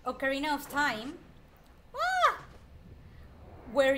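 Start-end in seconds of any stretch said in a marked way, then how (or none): 1.9-2.4 short high "Ah!" yelp; sudden loud, high cry of alarm; startled yelp. Real, not acted. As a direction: cry out as if caught off guard. Startled by game event.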